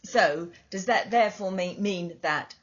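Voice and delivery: talking between sips of tea; sipping hot tea. Real, not acted. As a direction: mug at the lips, sipping while talking. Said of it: "I'm drinking a cup of tea if I make slurping noises".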